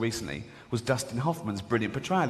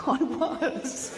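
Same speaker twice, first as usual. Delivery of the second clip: mock Hitler reply; 11 semitones higher than usual.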